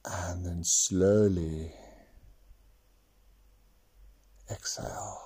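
slow whispered exhale cue; whispering. Acted. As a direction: let the words fade out on a breath. Breathing cue in meditation.

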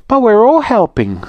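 high little rabbit protest; Tessie Rabbit. Acted. Little rabbit protesting to Little Rude, high and indignant. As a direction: squeak it out, put out.

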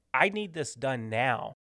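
slow, measured order; firm and deliberate, no yelling; serious demand. Acted. Manager telling staff to get it done now, serious. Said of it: "that's like me getting serious".

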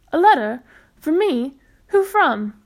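startled rising questions; surprised. Acted. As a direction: ask in surprise, loud and quick. Boy surprised by a letter.

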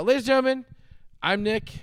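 high, loud showman call; announcer voice. Acted. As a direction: bellow it like a ring announcer. Host intro to sign-off.

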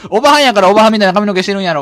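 nagging Osaka mum voice; loud nosy Osaka auntie. Acted. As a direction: scold him like a pushy Kansai mother. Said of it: "なんでババアのままなの？".

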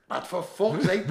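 loud, high, slow exasperation; retold scream. Mate pouring water in his mouth, mock screaming in exasperation. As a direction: imitate a mate yelling, words stretched out. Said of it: "but he's screaming at me at the same time".

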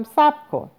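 high-pitched call after someone. A narrator's reading. Wife calling after husband as he leaves, high call. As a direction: call out to stop him, pitch jumping up. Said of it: "صدا زدم".

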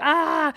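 imitated drunken wail. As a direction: let out a half-hearted wail. Imitates date's cry while running.

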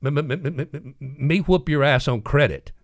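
a light stutter, then a firm threat; m-m-m then punch the threat; stammering Pete. Retold or imitated. Pete stammers a threat at Maxie, lightly voiced. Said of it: "he had a speech impediment".

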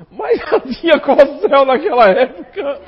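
slow, high, loud mock voice; hammed-up slow quote from an onlooker; imitating a man. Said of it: "E um cidadão chegou assim e fez assim".

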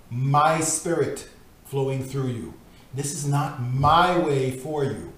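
measured, earnest reading of a devotional book; solemn devotional reading. Acted. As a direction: read it like scripture, steady and grave. Reads devotional text aloud.

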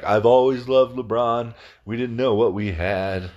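lightly put-on old man voice; old guy. Fans looking back on retired LeBron, as a lightly voiced old guy. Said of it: "I sound like an old guy".

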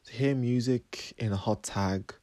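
measured, slightly soft poem recital; poetry reading. Acted. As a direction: recite your own poem with pauses between phrases. Reads own poem aloud.

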